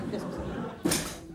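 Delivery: slow whisper, peering at something odd; a slow puzzled whisper to herself; whispered puzzlement. Acted. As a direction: breathe it out, slow and wondering. Puzzled at the broken phone.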